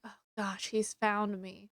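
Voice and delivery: hiding and scared of being found; hushed worry. Retold or imitated. Hiding in an alcove from footsteps, hushed worry. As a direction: drop to a near hush, slowing at the end.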